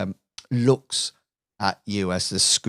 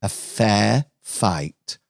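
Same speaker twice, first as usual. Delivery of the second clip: smug villain Lucille. Acted. Villain Lucille taunts Jack on screen, lightly voiced smug villainess. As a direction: tease the hero with mock concern. Lucille lays out her showdown terms.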